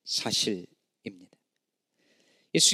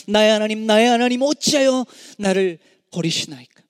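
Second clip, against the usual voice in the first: anguished cry; 4 semitones higher, 4 dB louder than usual. Acted. Jesus' cry on the cross.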